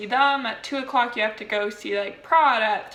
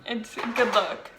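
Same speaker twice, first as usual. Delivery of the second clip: with whitening tray; slower than usual. Real, not acted. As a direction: lisp from whitening strips. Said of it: "Super cute".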